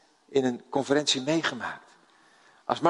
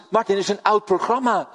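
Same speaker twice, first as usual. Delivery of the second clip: a wife's line told while chuckling; laughing through it; 6 semitones higher, 3 dB louder than usual. Real, not acted. Preacher retelling Karen's remark to Martin, laughing. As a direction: let the laugh break into the quote. Funny anecdote, laugh heard.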